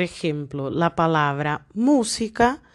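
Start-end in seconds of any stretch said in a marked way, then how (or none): 1.7-2.6 "música" with the first syllable stressed; teacher's demonstration of "música", "mú" strongest. Shown as a demonstration. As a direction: lean on "mú" in "música". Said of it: "la sílaba más fuerte es la antepenúltima".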